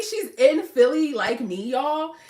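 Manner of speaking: ordinary talk, nothing marked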